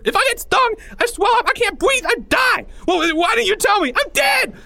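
loud, very high frantic rant; screaming in panic. Acted. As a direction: shriek it all out, shaking with terror. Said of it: "Porge screamed quicker now, shaking all over".

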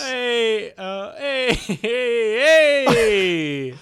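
hammed-up Irish hey; Irish accent. New Irish roommate greeting the host, Irish accent. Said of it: "Connery O'Shannacan".

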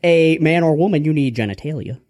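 lightly voiced mock preacher; Father Grandfather. Preacher correcting people on Lord Baby Jesus, lightly hammed-up. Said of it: "motivational speech on the Lord Baby Jesus by Father Grandfather".

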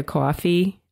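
"coffee" with a Jersey vowel, imitated; Jersey accent slip. Guest showing how the accent slips out, Jersey accent. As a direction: say "coffee" as a Jersey native would. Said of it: "Every once in a while, I'll come out with".

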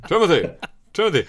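mock calling out. Calling out to Timothy.

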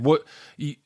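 ordinary talk, nothing marked

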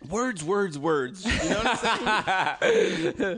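slow, drawn-out, self-important voice with a laugh in it; lightly voiced grandiose host, hammed up; mock pompous podcaster. Joking at his co-host, a mock podcaster grandly slow. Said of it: "you're good with this stuff".

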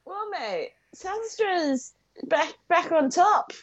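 high upbeat cheer; excited. Acted. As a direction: boast like a proud local. Cheery news-segment energy.

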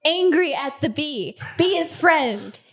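slow, simple talk as to an animal; reassuring bee-handler. Acted. Player praises the bee, slow simple reassurance. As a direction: praise it slowly, word by word.

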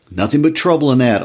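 stoutly insistent. A narrator's reading. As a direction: declare it firmly, high and emphatic. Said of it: "Old Man Warner said stoutly".

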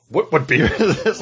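high, laughing mock amazement; excited disbelief. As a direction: replay the moment the taste floored you. Retelling first sip, I was like.

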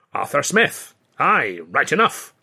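put-on Scottish accent, Smith rising in a knowing repeat; knowing Scottish echo. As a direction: wink the alias back in a Scottish lilt. Scotsman catches on to alias.

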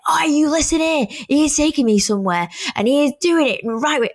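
mock telling-off. Passenger wound down window at van man, retold indignant telling-off. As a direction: re-enact giving him an earful.

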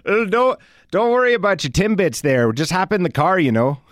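hammed-up Canadian accent, eagerly hospitable; mock Canadian. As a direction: do a neighborly Canadian caricature. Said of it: "some Canadian, uh, humor reference".

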